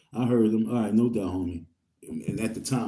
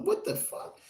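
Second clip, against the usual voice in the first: whispered disbelief; 7 dB quieter than usual. Retold or imitated. Whispered reaction on finding pills.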